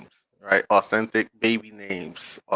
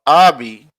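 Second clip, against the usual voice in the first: Abi punched loud on its first syllable; stress on the first syllable of Abi; 8 dB louder than usual. Shown as a demonstration. Contrasting names for viewers, Abi stressed up front. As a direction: hit the start of Abi hard. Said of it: "has the emphasis on the first syllable".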